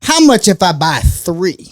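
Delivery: haggling lady. Retold or imitated. Lady pushes for a bigger deal.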